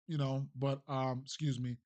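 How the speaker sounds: burping mid-sentence. Real, not acted. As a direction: talk through a burp. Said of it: "I'm burping and all types of shit".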